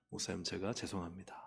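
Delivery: subdued, respectful regret; retold apology. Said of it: "목사님께 제가 말씀드렸어요".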